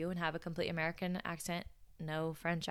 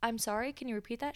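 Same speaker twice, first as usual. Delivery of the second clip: higher-pitched puzzled request; confused; 5 semitones higher, faster than usual. Retold or imitated. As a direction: imitate a baffled coworker. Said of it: "looked at her so confused".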